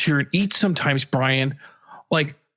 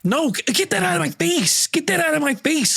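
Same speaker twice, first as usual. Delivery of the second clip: disgusted yell; 9 semitones higher than usual. Acted. Refuses salad shoved at face.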